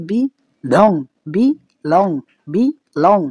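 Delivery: বি লং in separate beats, লং stressed; unstressed বি, then press on লং. Shown as a demonstration. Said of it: "লং যখন বলছি তখন সাউন্ডটা কিন্তু অনেকটা stressed".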